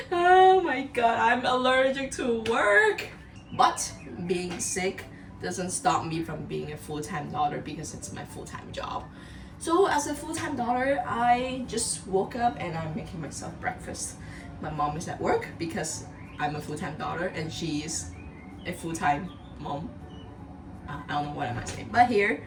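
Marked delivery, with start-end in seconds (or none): 0.1-3.1 high, loud squeal. Acted. Repeats joke in squeal. 3.6-21.9 hoarse, sick voice; croaky from a cold. Real, not acted. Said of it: "Can you tell I sound a bit different right now".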